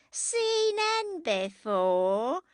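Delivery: high, hugely stretched tipsy echo; drunk woman. A narrator's reading. Drunken Jackie scoffs at Margaret's question, slow and tipsy. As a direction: drag out each word in drunken disbelief.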